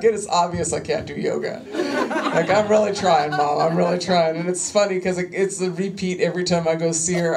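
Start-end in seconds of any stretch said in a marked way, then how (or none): 0.0-4.4 laughing. Retold or imitated. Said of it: "I was like".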